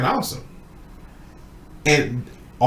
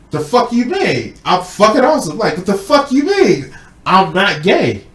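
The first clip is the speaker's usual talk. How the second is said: mock angry yell; 7 semitones higher, 4 dB louder than usual. Retold fight between two men.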